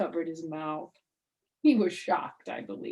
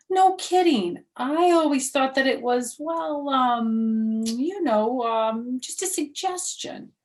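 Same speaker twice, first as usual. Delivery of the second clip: put-on much higher, louder kid voice, stumbling; surprised little girl; 8 semitones higher, 9 dB louder, slower than usual. Junie B amazed to learn it is a rule, high kid voice. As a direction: gasp it out like a shocked kid.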